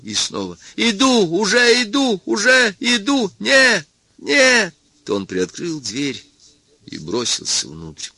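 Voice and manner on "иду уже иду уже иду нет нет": высокий фальцетный выкрик; кричит фальцетом в страхе; крик фальцетом. A narrator's reading. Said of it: "кричал фальцетом". (Сарториус кричит фальцетом за дверью)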